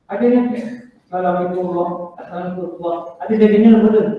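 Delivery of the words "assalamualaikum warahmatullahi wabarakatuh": softly mumbled wrong way; wrong salam demo. Shown as a demonstration. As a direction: mumble "Assalamualaikum" quietly and carelessly.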